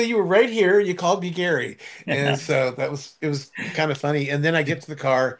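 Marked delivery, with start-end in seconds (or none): 0.0-1.8 higher-pitched teasing protest; lightly hammed-up indignation; mock accusation. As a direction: playfully insist on the accusation. Playful accusation, acted out.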